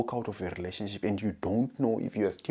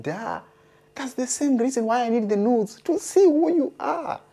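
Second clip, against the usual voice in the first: rising higher and louder, smug; mock reasoning; 12 semitones higher, 5 dB louder than usual. To his girlfriend, smugly arguing, pitch climbing. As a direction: push the punchline up and louder.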